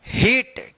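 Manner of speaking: हीट with long "ee" and released t; model reading of heat. Shown as a demonstration. Teacher answers how to read it, हीट with long "ee". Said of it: "इसको क्या पढ़ेंगे?".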